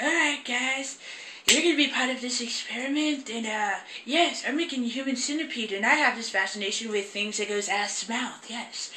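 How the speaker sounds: softly voiced mock doctor; imitating doctor's speech. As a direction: address the captives as the doctor, softly.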